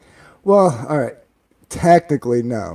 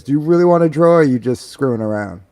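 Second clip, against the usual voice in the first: grandfather's stern challenge; 5 semitones higher, 11 dB louder than usual. Retold or imitated. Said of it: "he goes".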